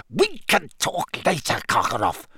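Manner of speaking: irritated, spat brush-off. A narrator's reading. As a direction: shut him down, pitch falling on the name. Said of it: "spat Snape".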